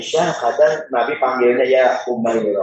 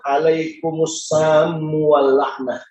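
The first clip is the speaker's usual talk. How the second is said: slow, pointed Arabic retort; Aisyah retorting; much slower than usual. Retold or imitated. Aisyah answering the insulting visitors, slow and pointed. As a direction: throw the curse back slowly. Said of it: "Fakultu, aku bilang".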